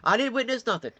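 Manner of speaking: high, wide-eyed feigned innocence; high, pretend-innocent denial to the cops; mock innocence. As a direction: play dumb to the officer. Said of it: "we all just".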